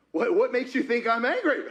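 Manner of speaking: defensive question through a laugh; laughing indignant. Shown as a demonstration. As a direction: toss it back with a laugh. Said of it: "I wouldn't have said it in the right way".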